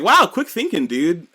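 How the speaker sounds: impressed praise. Retold or imitated. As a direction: gush over the clever idea. Everybody praising the quick idea.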